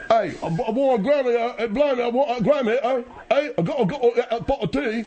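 rough mock-Cockney singer, sing-song pitch; badly faked London accent, stumbling over the lines; a singer. Nephew butting in with his impression, mock Cockney. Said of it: "I'm just doing a singer impression".

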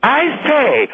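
lightly hammed Englishman imitation; mocking English accent. Caller mimicking the host's fake guest, mock English accent. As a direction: parody a stagey English accent. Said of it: "And that Englishman".

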